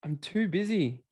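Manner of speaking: lightly voiced whiny excuse, slowed; a hint of a whiny busy person; mock excuse-maker. Mocking the person who's always too busy, light whine. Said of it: "they always just say".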